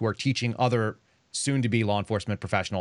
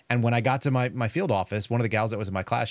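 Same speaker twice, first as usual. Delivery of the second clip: ordinary talk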